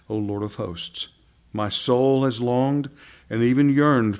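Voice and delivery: measured psalm recitation with pauses; scripture reading. Acted. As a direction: read the verses out in solemn phrases. Reads the bridge verses aloud.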